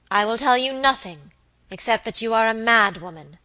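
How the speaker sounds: cold, hard dismissal. Acted. Lady Audley dismissing her maid, cold and hard. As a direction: freeze her out. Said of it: "in a cold, hard voice".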